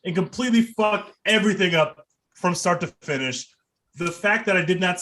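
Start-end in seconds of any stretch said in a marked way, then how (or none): 0.0-3.5 laughing while talking. Real, not acted. Laughing through his rant.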